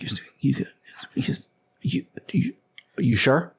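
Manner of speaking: hushed, halting whisper; half-whispered, broken-up question; acted whispering. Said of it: "He's kinda whispering".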